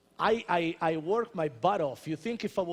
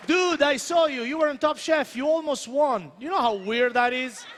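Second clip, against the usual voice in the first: imitating an excited fan, higher pitch; starstruck fan; 5 semitones higher, 3 dB louder than usual. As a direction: gush like a fan spotting someone from TV. Mimicking fans who recognize him from TV.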